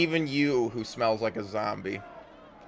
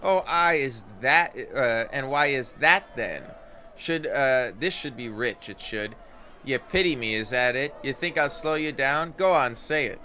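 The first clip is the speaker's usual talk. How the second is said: higher, louder, Scots-tinged challenge; defiant Anna; 3 semitones higher, 5 dB louder than usual. Acted. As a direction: dare them to say it.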